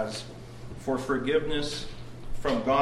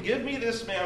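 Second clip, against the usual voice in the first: higher, demanding king; a commanding, indignant order; retold outrage; 9 semitones higher than usual. Preacher voicing David demanding the culprit. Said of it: "He's angry for the injustice".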